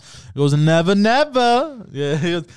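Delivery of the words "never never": slow, high Brooklyn bodega guy; Brooklyn accent. Retold or imitated. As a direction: drawl it like a Brooklyn deli man. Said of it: "He talks like that".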